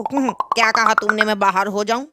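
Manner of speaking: a husband who misheard, asking back; deaf husband. Acted. (बहरे पति की धीमी, उलझी आवाज़)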